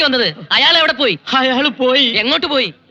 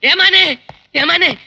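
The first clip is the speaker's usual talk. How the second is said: calling out; 5 semitones higher, slower than usual. Acted. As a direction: hail the boss from a distance. Calling out to the boss.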